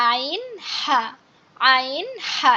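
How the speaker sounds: আইন and হা pressed from mid-throat; squeezed-throat pronunciation. Shown as a demonstration. Teacher drills two mid-throat letters, squeezed আইন, হা. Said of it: "এই দুইটাই গলা চেপে উচ্চারণ হবে".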